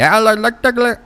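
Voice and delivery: high garbled mock-British babble; hammed-up, unintelligible British accent. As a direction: imitate a British interrupter as high-pitched gibberish. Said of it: "they do sound like that sometimes with that accent".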